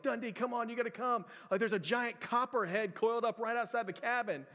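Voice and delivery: put-on breathless kid begging for help; urgent kids. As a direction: hurry him along like a scared camper. Kids begging him to come.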